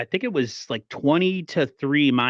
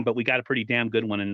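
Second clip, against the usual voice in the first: ordinary talk, nothing marked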